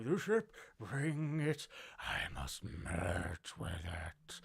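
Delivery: low, slow otherworldly creature. Retold or imitated. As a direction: drag it out like an alien god. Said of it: "this creature's just like".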